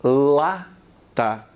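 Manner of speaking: teacher models "Lata" with the tongue touching the palate; demo word lata. Shown as a demonstration. Teacher demonstrating to students, careful "Lata". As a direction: say "Lata" carefully, L clear and crisp. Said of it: "A letra N também é língua palatal".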